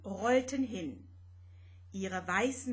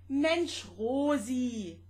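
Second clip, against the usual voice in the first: higher, loud friendly exclamation; 3 semitones higher, 4 dB louder, much slower than usual. Acted. Vanya telling Rosetta to stay relaxed, loud friendly call. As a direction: call out to calm her.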